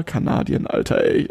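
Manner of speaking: slurred, tipsy mumble. Real, not acted. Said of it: "als wär ich besoffen".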